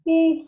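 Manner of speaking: loud yawning ooh; a real yawn breaking out. Real, not acted. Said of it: "I'm yawning".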